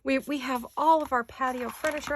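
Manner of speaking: sudden high startled what; surprised. Retold or imitated. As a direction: shoot the pitch up in shock.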